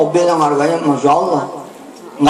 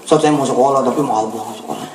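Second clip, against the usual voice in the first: timid request; 8 semitones lower, 4 dB quieter, faster than usual. Retold or imitated. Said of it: "Sebelumnya gimana".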